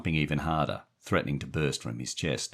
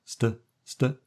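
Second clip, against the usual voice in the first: stammering; 9 semitones higher, slower than usual. A narrator's reading. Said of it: "Stevie swallowed".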